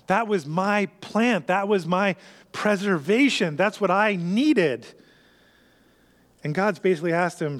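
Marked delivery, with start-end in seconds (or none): 0.1-4.9 higher, slow self-pitying whine; whiny sulking Jonah. Acted. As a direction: plead for the lost plant like a sulking child. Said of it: "he's pity party again".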